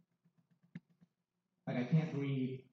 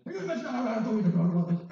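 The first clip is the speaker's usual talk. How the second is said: higher, laughing imitation of dad; 7 semitones higher, 3 dB louder, faster than usual. Dad calling after the podcast, laughing protest. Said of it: "my dad called me".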